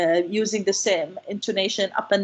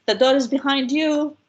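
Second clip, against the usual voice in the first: higher, held-up "The door is behind you"; dismissive demo; 4 semitones higher, 4 dB louder than usual. Shown as a demonstration. Lecturer tells a disliked person, pointed demo tone. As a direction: show someone the door, pitched up. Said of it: "somebody who you don't like very much".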